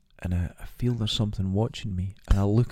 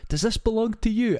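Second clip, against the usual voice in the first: mock high voice; 12 semitones higher than usual. Strangers returning lost man.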